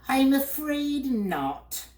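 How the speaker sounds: very high, slow mournful bird voice; sad bird. A narrator's reading. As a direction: droop like a weepy bird. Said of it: "he replied sadly".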